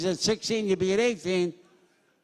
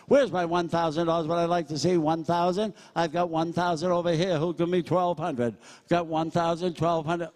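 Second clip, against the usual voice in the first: auctioneer bid calling. Acted. Auctioneer opening bids on a Kobe Bryant jersey, steady patter. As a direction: open the bidding and keep it moving.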